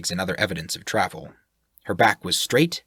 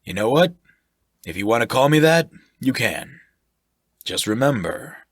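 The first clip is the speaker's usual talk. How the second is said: loud, higher, hearty; jovial sailor-type voice; 4 semitones higher, 4 dB louder than usual. Acted. Shirk flatters the sailor, loud and jovial. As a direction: boom it out like a jolly brute.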